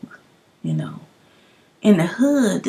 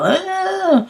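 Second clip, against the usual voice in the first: blank uh; 11 semitones higher than usual. Retold or imitated. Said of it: "just be like".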